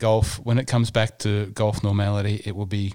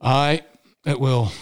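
a deliberately bad, slightly higher Scottish accent on "Aye, it will"; 3 semitones higher, slower than usual. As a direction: ham up a jokey Scottish accent for the sign-off. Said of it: "I left the bad Scottish accent until the end".

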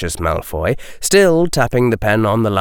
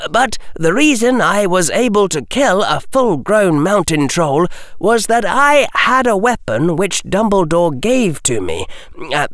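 put-on higher, firm and earnest boy; a lightly voiced boy pushing back politely; steady young voice laying out terms; Harry's voice; 8 semitones higher than usual. Harry argues his case.

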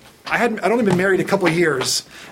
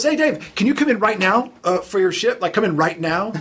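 higher, urgent boss on the phone; voicing Frank; 4 semitones higher than usual. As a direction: ask him to come in right now, pressing.

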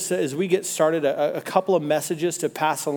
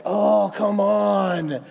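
exasperated groan; 3 semitones higher, much slower than usual. Retold or imitated. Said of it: "We're like".

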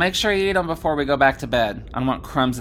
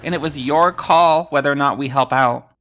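loud heated blame; arguing; 3 semitones higher, 6 dB louder than usual. Acted. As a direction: snap back in a quarrel. Heated argument about blame.

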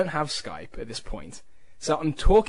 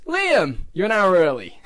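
mock scolding; 5 dB louder, slower than usual. Cornette scolding Liam for calling early, loud mock scold. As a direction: play the grumpy promoter telling him off.

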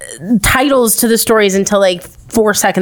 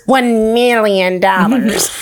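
slow, drawn-out Doctor Evil; slower than usual. Acted. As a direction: savor the sum like a villain. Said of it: "Doctor Evil".

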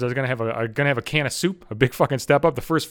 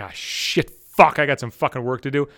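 mock dismay; 4 semitones lower than usual. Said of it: "you're like".

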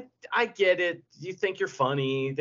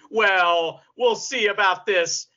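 slow, louder, drawn-out hammy threat; mock wrestling promo; 4 semitones higher, 5 dB louder, slower than usual. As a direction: stretch it out like a cheesy wrestler cliffhanger. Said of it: "bad guys and good guys saying".

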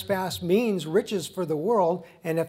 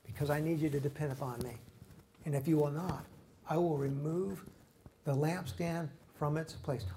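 a quicker, softer answer as God, lightly voiced; 5 dB quieter than usual. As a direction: answer as God, gently firm. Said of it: "why are you doing this to us, God".

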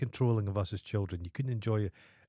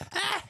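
very high, short squeal; quick piercing-pitch yelp as a demo; demonstrated scream; 3 dB quieter than usual. Shown as a demonstration. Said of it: "you could just scream".

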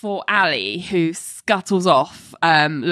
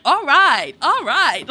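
high mock cheering extras; 7 semitones higher, slower than usual. Extras cheering at the office, mock high voices. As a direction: ham up the clapping extras. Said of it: "random extras going".

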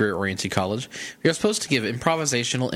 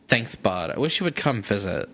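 Valley Gay voice. Retold or imitated. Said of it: "Are you doing gay or Valley Girl".

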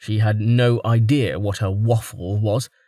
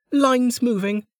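higher, slow, curt grumble; gruff Velika; 13 semitones higher than usual. A narrator's reading. Velika telling the pushy woman to stay, grudging. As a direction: dismiss her, clipped and sour.

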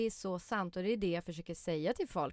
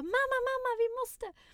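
put-on very high, loud child's plea; begging kids; 6 dB louder than usual. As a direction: whine up at mum like a small child.

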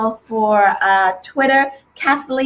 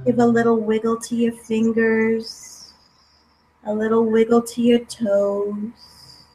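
guided meditation. Acted. Closing meditation guidance.

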